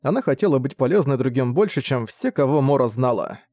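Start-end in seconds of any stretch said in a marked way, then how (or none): none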